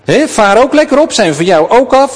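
put-on high, taunting sing-song of jeering boys; mocking jeer. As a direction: sneer it up at him like a bratty kid. Jeering youths mock the prophet.

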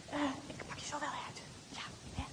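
tender hushed whisper to the doll. Acted. Girl talking to the doll in her bag, whisper. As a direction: soothe the doll secretly.

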